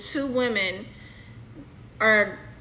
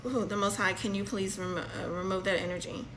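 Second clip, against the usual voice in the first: soft prayer; 6 dB quieter, faster than usual. Real, not acted. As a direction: quietly ask for relief in prayer. Murmured plea to the Most High.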